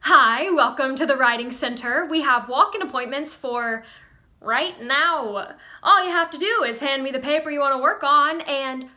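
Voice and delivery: loud, eager welcome; bursting with eagerness to help; excited. Acted. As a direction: greet a long-awaited visitor with great enthusiasm. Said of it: "His face lights up with excitement".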